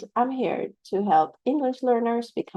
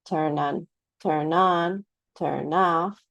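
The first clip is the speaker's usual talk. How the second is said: "Turn on", "turn off" with on and off stressed; teacher drilling particle stress; slower than usual. Shown as a demonstration. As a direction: run the two words together, leaning on the second. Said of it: "no blank spaces there".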